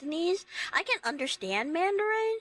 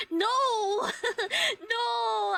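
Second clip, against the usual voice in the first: laughing denial; 8 semitones higher than usual. Real, not acted.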